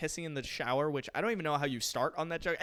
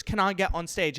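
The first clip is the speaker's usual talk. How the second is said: lightly imitated British accent; 2 semitones higher than usual. Woman in the audience obliging the host, mock British accent. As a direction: say it with a touch of British, broad vowel in "Can". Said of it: "in a British accent".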